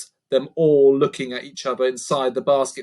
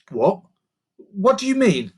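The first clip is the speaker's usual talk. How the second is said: put-on higher, worried girl; Lucy, alarmed; 7 semitones higher, 4 dB louder than usual. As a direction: press for the truth.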